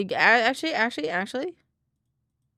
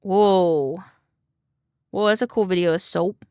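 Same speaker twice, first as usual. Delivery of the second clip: amazed; 10 dB louder than usual. Real, not acted. Amazed at a soap video.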